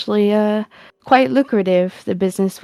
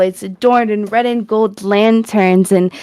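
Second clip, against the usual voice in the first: scene setting. Acted. GM sets the festival scene.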